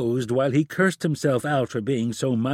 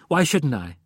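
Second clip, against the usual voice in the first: snapped; 4 semitones higher than usual. Acted. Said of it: "she snapped".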